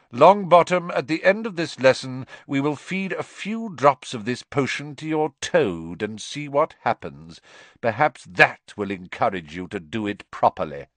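loud, high, cold threat; menacing Snape. Acted. Snape warning Neville his toad will be poisoned, cold menace. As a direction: lean over him and threaten.

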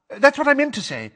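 very high, loud, flustered; hasty correction. Acted. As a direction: blurt it quickly to cover a slip. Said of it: "said Missus Figg quickly".

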